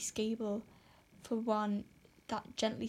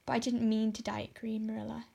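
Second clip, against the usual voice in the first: dejected protest. Acted. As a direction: protest in a small defeated voice. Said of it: "protested Anne dejectedly".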